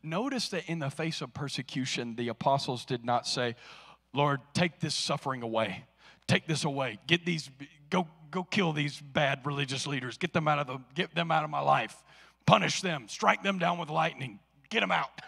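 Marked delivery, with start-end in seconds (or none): 4.1-15.2 mock vengeful prayer.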